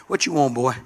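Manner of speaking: mock the old man at the door; a touch of her stern daddy; lightly voiced stern father. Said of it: "That's what he talked in my day".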